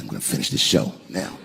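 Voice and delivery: quiet resolve. Retold or imitated.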